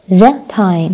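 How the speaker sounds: "the time" with THE said "thuh"; weak THE. Shown as a demonstration. Teacher giving a consonant example, THE as "thuh". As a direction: say a short "thuh" before "time". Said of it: "ب consonant بستخدم the".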